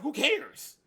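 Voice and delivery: high, scornful who cares; scornful dismissal, high. Acted. Heated reply to imagined objector.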